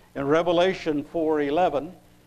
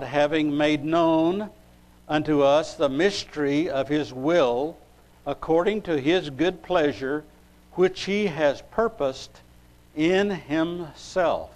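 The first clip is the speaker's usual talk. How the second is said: measured, emphatic Bible reading; scripture reading. Acted. Preacher reading Ephesians to the congregation, scripture reading. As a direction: read the verse out deliberately, phrase by phrase.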